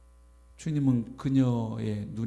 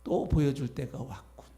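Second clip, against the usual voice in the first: smug grin; 2 semitones lower than usual. Pretend. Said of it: "회심의 미소를 지으면서".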